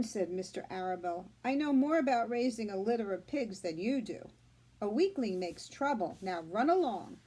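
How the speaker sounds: put-on reading aloud to children; teacher reading a chapter book to her class; story reading. A narrator's reading. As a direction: tell the story to the class, clear and gentle.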